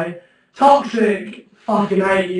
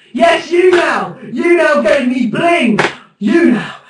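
excited shout; 4 semitones higher than usual. Real, not acted. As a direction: cheer the moderator for the gift. Thrilled at moderator's gift.

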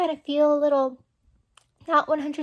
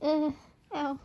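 laughing through pain; 3 dB quieter than usual. Real, not acted. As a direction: laugh until it hurts, then wince. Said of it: "It hurts to laugh".

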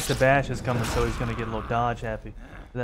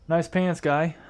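mock compliment, a bit higher and louder; sarcastic; 4 semitones higher, 5 dB louder, much slower than usual. Taunting an opponent over his outfit, sarcastic. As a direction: fake praise, dripping with sarcasm. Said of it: "Could y'all hear the sarcasm in my voice?".

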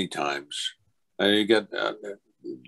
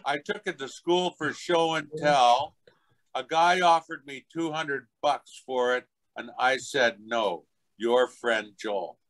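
put-on deliberate, higher little-kid recital; child's note read aloud; 5 semitones higher than usual. Kid's thank-you note to the actor, deliberate childlike reading. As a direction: recite it stiffly as a small boy. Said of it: "I got this note".

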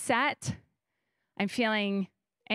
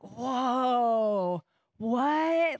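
stunned. Retold or imitated. Stunned by God's words.

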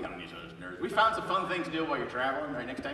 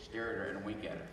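talking with mouth closed; 5 semitones lower, 10 dB quieter, faster than usual. Shown as a demonstration. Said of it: "I talk without moving my mouth".

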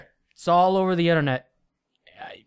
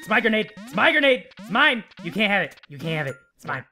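possessive whining; faster than usual. Pretend. Possessive over grenade.

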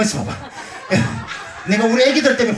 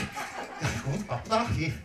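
breathy whisper under his breath; whispered aside; 4 semitones lower, 15 dB quieter, much slower than usual. Real, not acted. Performer grumbling to himself while doing all the work, whispering. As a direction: whisper it to yourself, almost silent.

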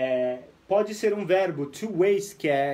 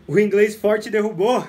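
joking exclaim; 3 semitones higher, 7 dB louder than usual. Real, not acted. Joking the live dropped.

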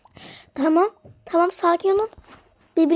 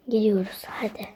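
whisper; 4 semitones lower, 7 dB quieter than usual. Pretend. Sneaking in quietly.

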